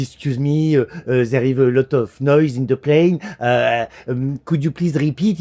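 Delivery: put-on halting, careful English with a French accent; hesitant French-accented English. Flustered steward asks Texan to repeat, hesitant French-accented English. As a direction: grope politely through English in a French accent. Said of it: "j'étais pas très à l'aise".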